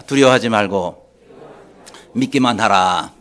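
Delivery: loud, low, declaimed phrases; call to repeat. Shown as a demonstration. Preacher has congregation repeat Jesus' words, loud leading call. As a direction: lead the congregation loudly, phrase by phrase. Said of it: "따라합시다".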